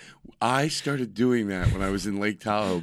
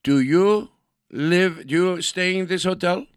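guard questioning; 7 semitones higher, 5 dB louder than usual. Acted.

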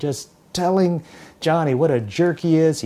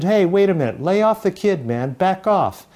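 raised, higher voice to stop the bully; calling out to the bully; 5 semitones higher, 3 dB louder than usual. Acted. New kid tells the bully off, raised and firm. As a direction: step in loudly to stop a fight.

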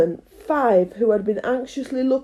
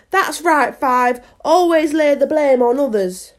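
higher, louder acted retort; bickering gardener; 5 semitones higher, 5 dB louder than usual. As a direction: needle a workmate in an argument. Gardeners bicker, Seven answers Five.

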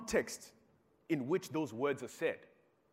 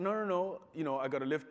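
quick protest; 5 semitones higher, 5 dB louder than usual. Retold or imitated. Eager denial to uncle.

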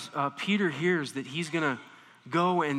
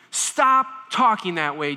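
insistent; 6 dB louder than usual. Retold or imitated. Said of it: "He's saying this with intensity".

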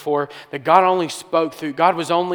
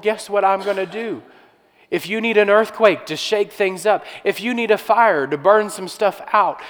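voicing God; 3 semitones higher, 3 dB louder than usual. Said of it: "But God was saying in that moment".

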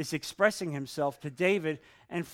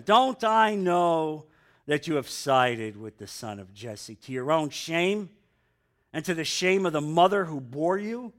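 angry king; 2 semitones higher, 5 dB louder than usual. Acted. Saul rails at Jonathan, loud seething anger. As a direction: let the king's rage boil over. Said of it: "Saul's anger flared up".

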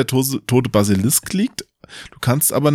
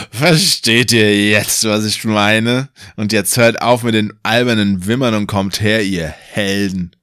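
mocking. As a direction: drag it out to mock the heroes. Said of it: "spöttelt er".

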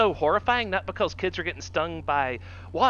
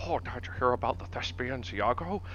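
a hint of posh gossip; 5 semitones lower, 7 dB quieter than usual. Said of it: "we could be like".

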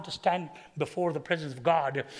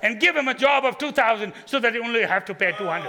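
louder, higher, laughing through the joke prayer; laughing mock prayer; 4 semitones higher, 6 dB louder than usual. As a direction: chuckle while praying him into a smaller job. Mock prayer to lose his job.

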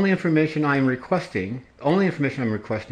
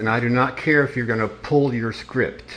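firm, slow, every word separate; slow and deliberate. Real, not acted. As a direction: spell it out with stern patience. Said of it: "I am going to ask you again".

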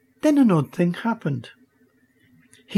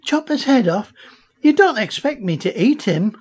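appalled; 7 semitones higher than usual. A narrator's reading. Girl appalled at the egg.

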